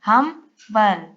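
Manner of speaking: हम्बल said very slowly as हम-बल; split into syllables. Shown as a demonstration. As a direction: divide हम्बल before the ब, drawn out. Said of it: "यहाँ से division करेंगे". (हम्बल को हम-बल में तोड़कर धीरे बोलें)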